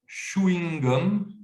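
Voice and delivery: "chewing gum" high and slow as "chou-ing gom"; third pronunciation variant. Shown as a demonstration. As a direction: stretch "chewing" with an ou sound. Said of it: "Ou je pourrais le trouver à".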